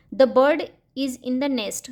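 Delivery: very slow, word by word; slow, clear dictation pace; slow example read. Shown as a demonstration. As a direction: read it out slowly for children. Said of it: "जैसे".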